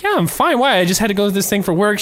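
high, breezy imitation of the girlfriend; Kelly. Imitating Kelly answering the neighbor, high and breezy. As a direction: toss it off brightly, clueless. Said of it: "And Kelly's like".

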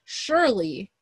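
"Surely" said firmly at normal pitch; first, measured hit on "Surely"; emphatic repetition. Real, not acted. Making a point about names, measured emphasis on "Surely". Repeats the word for rising emphasis.

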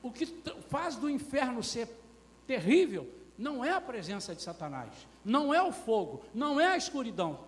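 high, punched sermon delivery; loud, rising pulpit emphasis; forceful preaching. Real, not acted. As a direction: hammer each denial to the congregation.

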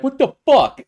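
high, loud disbelieving yell; shocked outburst. Retold or imitated. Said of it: "and we'd be like".

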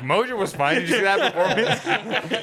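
mocking internet commenter. Mocking a message board commenter.

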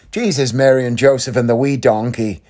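amateur bash at an Irish accent; Irish accent impression. Shown as a demonstration. Showing listeners his bash at the voice, Irish accent. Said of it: "that's my bash at doing his voice, his Irish accent".

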